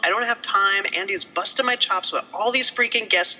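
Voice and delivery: mock whining excuses to friends; whiny excuse. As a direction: plead your excuses half-laughing. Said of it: "And I'm".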